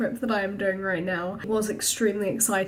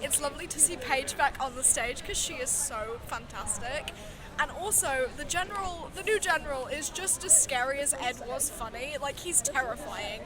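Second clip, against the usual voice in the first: hushed; 3 semitones higher, 10 dB quieter than usual. Real, not acted. Quiet update from a theatre interval.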